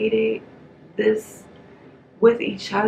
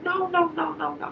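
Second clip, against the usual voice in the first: Nikki pleading; 7 semitones higher than usual. Retold or imitated. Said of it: "She's like".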